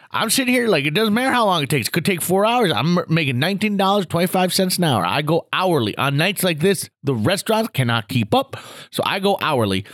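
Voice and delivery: lightly voiced bragging old-timer, starting high; Gramps' voice. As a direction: hold forth quickly like a know-it-all grandpa. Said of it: "Gramps Grant's talking like this".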